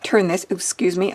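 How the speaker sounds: talking through hiccups; hiccupping mid-sentence. Real, not acted. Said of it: "I have the hiccups".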